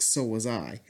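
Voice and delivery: quietly imitating a sad, hurt line; a soft, heartbroken reply to a friend. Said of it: "you hear the sadness in his voice".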